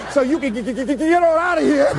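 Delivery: laughing stuttered get out; stutter while laughing. Retold or imitated. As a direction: mimic the stutter through laughter. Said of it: "she stutters".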